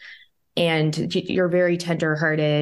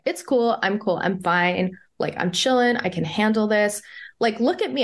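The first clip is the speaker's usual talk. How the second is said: higher-pitched, breezy insistence on coping; imitating proudly keeping cool; proud self-reassurance; 4 semitones higher than usual. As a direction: play up being totally chill. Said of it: "I was, like, proud of myself".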